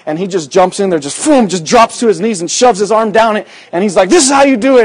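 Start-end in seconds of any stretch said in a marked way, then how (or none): 4.1-4.8 high, loud mock command; hammed-up officer showing how; retold command. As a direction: show them how, pitched up and loud. Officer demonstrates.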